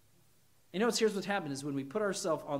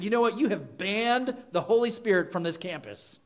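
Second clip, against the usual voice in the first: imitating frustrated lady; 2 semitones higher, 4 dB louder than usual. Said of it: "She was very frustrated at me".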